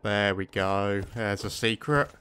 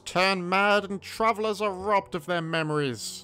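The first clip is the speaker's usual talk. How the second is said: elder voice; 3 semitones higher, slower than usual. Acted. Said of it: "you get an elder voice".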